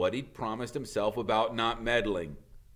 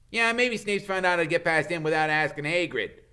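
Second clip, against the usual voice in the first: put-on higher, louder alarmed boy; Ron; 8 semitones higher, 7 dB louder than usual. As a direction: blurt the bad news. Ron's voice.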